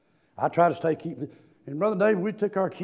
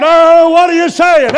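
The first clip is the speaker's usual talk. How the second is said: imitated question; 10 semitones higher, 17 dB louder, slower than usual. Voicing the congregation's question.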